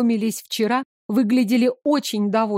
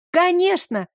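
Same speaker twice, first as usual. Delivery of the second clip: a bright, high, glad "Конечно!"; a girl relieved and happy; delighted; 7 semitones higher than usual. A narrator's reading. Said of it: "Девочка обрадовалась".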